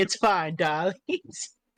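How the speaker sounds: best attempt at a put-on feminine voice. Describing how the Mune reacts, speak in a put-on feminine voice. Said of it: "trying their best feminine voice".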